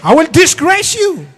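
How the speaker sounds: high loud threatening yell; mock threat shout. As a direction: threaten him at full voice. Wife threatening.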